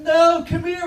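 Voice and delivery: high, loud excited yell across the store; kid screaming. Acted. Kid yelling to his friend across the Walmart, high and loud. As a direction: shout for your friend to hurry over. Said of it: "he's screaming".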